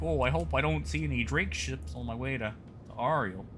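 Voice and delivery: lightly voiced Midwestern worrier; Midwestern accent. Pearl-clutcher fretting over Drake ships, in a light Midwestern accent. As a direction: fret mildly in a put-on Midwestern accent. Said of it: "like an overly convoluted Midwestern accent".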